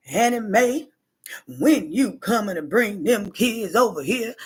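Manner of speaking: lightly voiced grandmother in a flat, bumpy monotone. Granddaughter imitates grandmother calling her daughter, mild monotone. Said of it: "like, a monotone voice".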